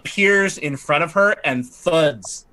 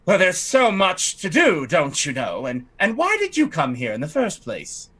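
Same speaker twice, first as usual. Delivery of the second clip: a slightly raised, haughty lady's voice; fussy noblewoman; 3 semitones higher than usual. Acted. Lightly raised voice as the lady fretting to the party about her estate. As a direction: play the put-upon aristocrat lamenting her estate. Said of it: "And she says".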